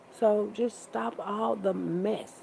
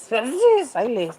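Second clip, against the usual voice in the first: laughing; 5 semitones higher, 9 dB louder than usual. Real, not acted.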